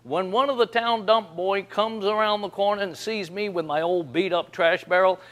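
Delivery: ordinary delivery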